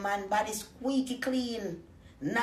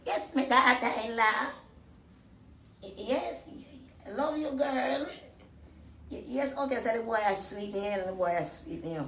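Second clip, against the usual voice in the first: mock sweet mother-in-law; 2 semitones higher than usual. Mother-in-law voiced again on phone.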